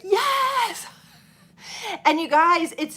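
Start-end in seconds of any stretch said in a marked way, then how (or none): 0.0-0.9 high, thrilled yes; eager yes. Retold or imitated. Retelling her answer to a market invite, high and thrilled. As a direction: jump at the invitation. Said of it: "And I was like".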